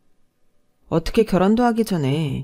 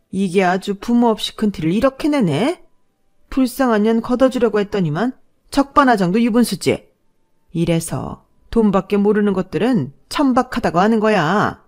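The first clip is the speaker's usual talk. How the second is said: put-on scornful older woman berating an inferior; contemptuous mother-in-law; 4 semitones higher, 5 dB louder than usual. Boyfriend's mother insulting the orphaned fiancée, scornful. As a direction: berate her with indignant contempt.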